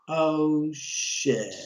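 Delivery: slow retold dismay, dropping at the end; sinking dread. Neighbor hearing the director's order to himself, sinking dread. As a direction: let it sink and trail down.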